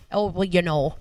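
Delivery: lightly imitated Minnesota accent, long vowels. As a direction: quote it like an older Minnesotan. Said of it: "Minnesota thing".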